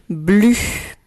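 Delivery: syllable dictated loud and clear; dictation. Shown as a demonstration. Teacher dictating the first syllable to pupils, dictation voice. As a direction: say BLU as one isolated, carefully projected syllable. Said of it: "Je répète".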